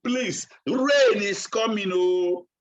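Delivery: mild retold shout, drawn out; Noah's shouted warning. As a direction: call out a slow warning to the people. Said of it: "Noah was busy shouting to the children".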